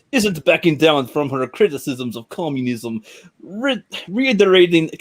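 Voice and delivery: article read in a mock Russian accent; attempted Russian accent. Shown as a demonstration. Reading about criticisms of communism, attempted Russian accent. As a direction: struggle through it in a Russian accent. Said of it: "these are not Russian words".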